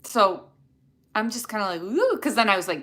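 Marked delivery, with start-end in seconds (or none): 1.8-2.2 quick high-pitched "ooh" sound. Retold or imitated. Streamer showing viewers how they feel, high "ooh". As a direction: let out a high little "ooh". Acts out own keyed-up feeling.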